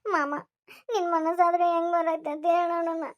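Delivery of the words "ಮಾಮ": tearful plea; crying uncle. Acted. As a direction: sob out the word. Girl starts crying.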